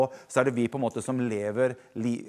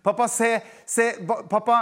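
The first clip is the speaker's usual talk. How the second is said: put-on child calling out; 6 semitones higher than usual. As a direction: shout "se nå!" like an eager little boy. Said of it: "da ropte jeg". (ivrig barn som roper høyt på pappa)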